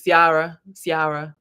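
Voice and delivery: put-on her name in a Ghanaian man's accent; imitated Ghanaian accent. Woman imitates Ghanaian man saying her name, accented. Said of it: "He used to say my name".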